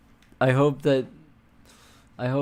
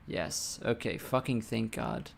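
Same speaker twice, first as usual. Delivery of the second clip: whispered; 2 semitones lower, 9 dB quieter than usual. Real, not acted. Quiet relief after bug fixed.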